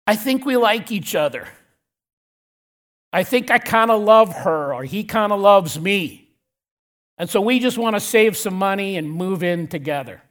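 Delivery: mildly mocking imitation of a couple; seemingly sarcastic. Pastor imitating a couple who want to move in, mildly sarcastic. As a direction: imitate a couple's casual reasoning with light sarcasm. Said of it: "Scott's getting really sarcastic here".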